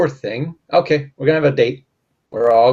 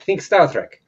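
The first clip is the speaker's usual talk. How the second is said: put-on Russian accent. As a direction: coach them like a Russian mentor. Coaching the partner's Russian accent.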